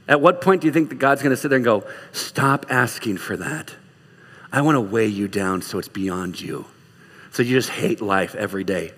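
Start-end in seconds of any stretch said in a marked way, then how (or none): 2.1-8.9 God refusing. Acted. Sarcastically voices God refusing the prayer.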